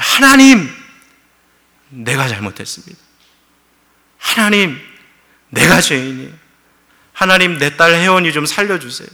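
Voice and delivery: crying out to God, loud and broken; father pleading aloud for his daughter's life; desperate prayer. Retold or imitated. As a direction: beg God for your dying daughter. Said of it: "기도를 한 거예요".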